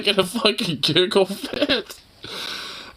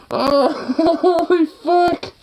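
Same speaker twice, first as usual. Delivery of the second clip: real laughter; 10 semitones higher, slower than usual. Real, not acted. Laughing fit over Satan ball.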